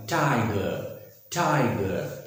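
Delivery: टाइगर with a puffed t and no final r; 'thai-guh', long and falling; aspirated T. Shown as a demonstration. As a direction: puff the t of टाइगर, end on 'guh'. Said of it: "क्या बोलेंगे".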